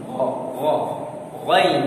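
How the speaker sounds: heavy, rounded "गौ", then "गैन"; thick letter. Shown as a demonstration. Teacher showing ghain is read thick, heavy "गौ, गैन". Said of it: "ये मोटा पड़ा जाएगा".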